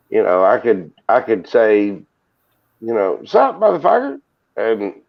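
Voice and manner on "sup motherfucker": mock Southern greeting. Shown as a demonstration. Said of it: "motherfucker is a Southern greeting".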